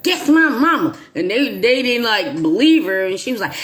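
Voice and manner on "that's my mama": mild mock anger. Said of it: "she got real mad".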